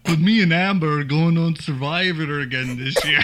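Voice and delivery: badly faked Boston accent; hammy Boston accent drifting toward Irish. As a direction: put on a broad mock Bostonian. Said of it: "Boston, Mass".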